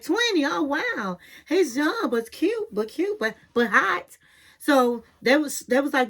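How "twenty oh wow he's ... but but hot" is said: higher, giddy imitation of the friends; mock surprise. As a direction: squeal at how young he is. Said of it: "And they was like".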